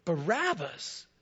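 loud crowd chant, slowing on the name; crowd shouting. Retold or imitated. Retelling the crowd's cry for Barabbas, loud chant. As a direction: hammer out the name like an angry mob. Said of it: "they all cried out".

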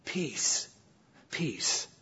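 soft, hushed "peace, peace"; soothing false comfort. Retold or imitated. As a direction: lull them with a soft false promise. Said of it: "false prophets who gave a different message".

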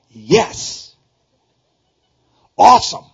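loud elated shout; overjoyed cheer. Pretend. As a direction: burst out like you just won. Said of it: "if you went away going".

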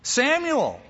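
a summoning voice, called out high; God calling Samuel. Acted. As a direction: call out to the boy, twice. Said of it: "all God had to say was".

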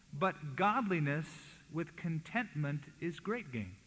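"godliness" made the prominent word, slowly; slow the line and lean on "godliness"; stress on godliness. Shown as a demonstration. Preacher contrasts two verses for congregation, stress on "godliness". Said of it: "the emphasis is on godliness".

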